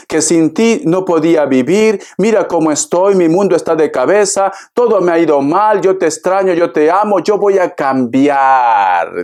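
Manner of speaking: lightly voiced ex begging to come back; mild mock plea from an ex who says he has changed; pleading ex-lover. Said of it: "Te va a contar su historia, que lo ha pasado mal".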